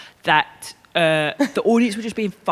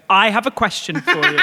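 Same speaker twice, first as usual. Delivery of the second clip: mimicking the question opener; 4 semitones higher, 4 dB louder than usual. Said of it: "introduce your questions by going".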